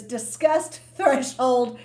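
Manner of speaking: a mouthful, pronounced slowly and deliberately; slow, careful enunciation. Real, not acted. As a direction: separate the two words carefully. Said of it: "I have to say this slowly".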